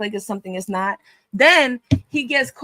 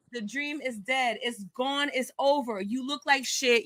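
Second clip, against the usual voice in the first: much softer, slow, cold verdict; quiet put-down; 9 dB quieter than usual. Real, not acted. Host dismissing the streamer, quiet and cold.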